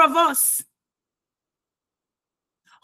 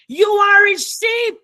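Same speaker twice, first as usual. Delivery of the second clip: louder and higher, proclaimed to the room; loud proclamation; 4 semitones higher, 4 dB louder than usual. Real, not acted. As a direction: call it out with full force. Preacher repeating key line.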